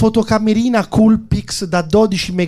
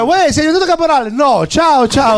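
put-on higher, louder girl's voice; girlfriend voice; 9 semitones higher, 4 dB louder than usual. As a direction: put on a high girlish voice.

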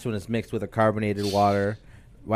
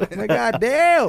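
mock dismay; 13 semitones higher, 3 dB louder than usual. Acting out being caught undressed.

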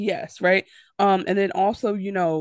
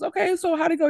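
imitating Kendall; 11 semitones higher, faster than usual. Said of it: "Kendall goes".

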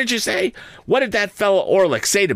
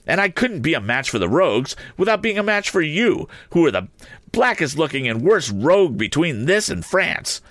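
higher and higher, working herself into fury; building rage; 6 semitones higher than usual. A narrator's reading. Sister rails at Joe and Orlick, rising into rage. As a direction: climb into a mighty rage. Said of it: "beginning to work herself into a mighty rage".

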